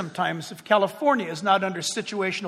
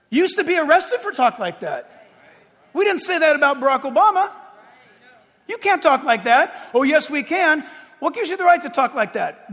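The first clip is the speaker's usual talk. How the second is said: high, raised pulpit voice; indignant preaching; 6 semitones higher, 4 dB louder than usual. Acted. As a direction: call out each outrage to the congregation. Preaches, acting out an argument.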